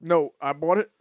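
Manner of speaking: strangely stressed bought; odd delivery. Real, not acted. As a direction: weird funny inflection. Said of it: "Why you said it like that?".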